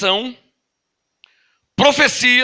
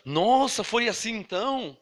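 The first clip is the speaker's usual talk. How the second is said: soft aside of a surprised reader; hushed wonder; 8 dB quieter than usual. Acted. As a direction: react quietly, as if just finding out. Acts a reader's reaction to story. (espanto baixinho de quem descobre)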